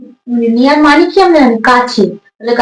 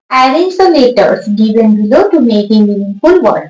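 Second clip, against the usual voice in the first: slow dictation; 3 semitones lower, much slower than usual. Shown as a demonstration. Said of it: "teacher reads the question aloud".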